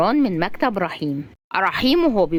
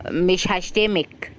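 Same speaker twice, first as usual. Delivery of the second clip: drawn-out, even promise; measured, unhurried reply; slow reassurance; slower than usual. Acted. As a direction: answer slowly and patiently. Rahim reassures Razan slowly.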